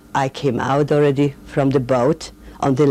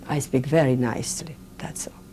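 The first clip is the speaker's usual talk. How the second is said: soft aside; 2 semitones lower, 5 dB quieter than usual. Real, not acted. Joking about her own speech.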